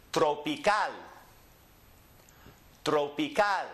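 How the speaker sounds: Tropical as tro-pee-KAL; Spanish pronunciation. Shown as a demonstration. Teacher models for repeating, Tropical stressed on CAL. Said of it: "Repeat after me".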